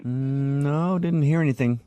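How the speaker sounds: talking through a bite of cookie; chewing while answering; mouth full. Pretend. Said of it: "It sounds like some moaning".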